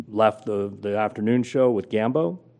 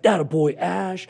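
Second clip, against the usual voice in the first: higher, punchy radio-host praise; Jim Rome voice; 10 semitones higher, 4 dB louder than usual. Retold or imitated. Host praising the young producer on air, high and loud. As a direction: cheer him on like a big-time host. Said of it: "he's doing the Jim Rome voice".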